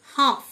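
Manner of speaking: "হাফ" with the L left unsounded; silent L. Shown as a demonstration. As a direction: say "হাফ" with no L before the F. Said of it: "এল silent". ("হাফ", এল উচ্চারণ না করে)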